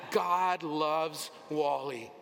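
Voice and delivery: slow, loud, emphatic declaration; loud proclamation. Shown as a demonstration. Preacher leading the congregation's loud declaration. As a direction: shout your own name into it. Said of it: "Say your name".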